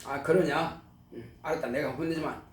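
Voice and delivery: low, soft, subdued acknowledgement; father's first reaction. Retold or imitated. Father hearing his beaten son's complaint, low and subdued. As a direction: answer quietly as a father hearing it out. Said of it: "처음에는 아버지께서".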